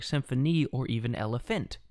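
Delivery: "symphony" and "elephant" stressed on their last syllables; "elephant" as an anapest, two light beats then a strong one; stress moved to end. Shown as a demonstration. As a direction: say sym-pho-NEE and el-e-PHANT for "symphony" and "elephant". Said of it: "can also be pronounced flexibly".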